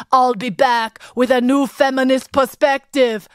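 lightly hammed Austrian action-hero accent; Schwarzenegger accent. Host imagining the action hero turned feminist, bad Schwarzenegger accent. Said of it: "did people expect him to say".

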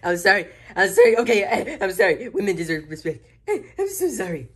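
giggling sorry, sorry; laughing apology. Acted. To the angry sister, sorry through laughter.

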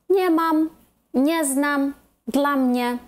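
NIE mam, NIE znam, DLA mnie; stress on first word. Shown as a demonstration. Teacher reading two short words as one, first one stressed. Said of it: "наголос падає на другий склад".

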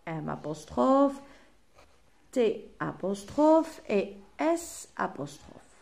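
very slow, spelled-out dictation; slow, deliberate teacher dictation. Shown as a demonstration. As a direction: slowly spell out each elision for the class. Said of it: "dictating elisions slowly".

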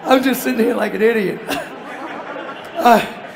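giggling as you tell it; laughing while telling. Real, not acted. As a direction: laugh at your own embarrassment. Laughing at his embarrassing moment.

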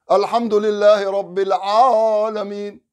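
الحمد لله رب العالمين met een open, volle a; correct recitation. Shown as a demonstration. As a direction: open alif in العالمين, no imala. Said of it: "why الع".

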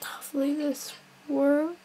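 breathy whispered aside to self; hushed murmur while focusing. Real, not acted. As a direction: whisper it under your breath. Quiet whisper while concentrating.

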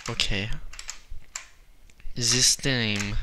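put-on German accent. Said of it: "I'm doing it right now".

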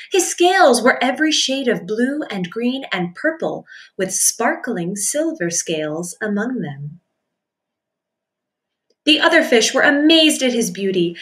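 lively storybook narration; reading to children. A narrator's reading. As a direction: read it like a picture book. Reading picture book to children.

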